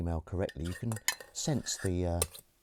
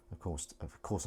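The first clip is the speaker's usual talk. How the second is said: dry, softer mock agreement; understated sarcasm; sarcastic; 6 dB quieter than usual. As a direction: say it knowing it's untrue. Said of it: "I'm sarcasticizing".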